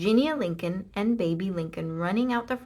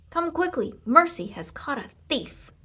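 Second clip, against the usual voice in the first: put-on excited Baby; 7 semitones higher, 4 dB louder than usual. A narrator's reading. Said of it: "shouted Baby".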